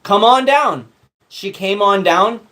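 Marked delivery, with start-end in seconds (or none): 0.0-0.9 higher, slow, laughing sarcastic wow; sarcastic fake cheer at mom's cabin offer; mock enthusiasm. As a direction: drip fake delight over the offer. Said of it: "And we said".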